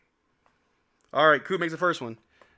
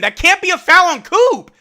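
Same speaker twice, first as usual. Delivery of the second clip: higher, louder outraged complaint; indignant protest; 13 dB louder than usual. Real, not acted. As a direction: argue the call at the ref. Protesting a foul call.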